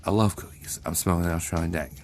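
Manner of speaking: low, lazy stoner bird voice; stoned kiwi bird. Acted. Giant kiwi bird greeting cookies, low stoner voice. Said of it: "the kiwi's like".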